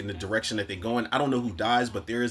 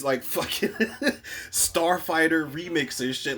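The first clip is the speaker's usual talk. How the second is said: laughing; 6 semitones higher than usual. Real, not acted. Laughing while describing scene.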